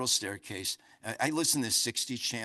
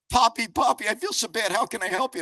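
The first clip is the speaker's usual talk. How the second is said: higher and louder, a hint of a fretting little boy; worried grandson; 10 semitones higher, 8 dB louder than usual. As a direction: lightly voice the sorry grandson. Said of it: "And he goes".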